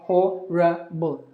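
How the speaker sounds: HORRIBLE slowly as "ho, ruh, bul"; three syllables. Shown as a demonstration. Teacher giving the alternative, three-syllable pronunciation. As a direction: sound out every syllable of HORRIBLE. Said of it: "Three syllables".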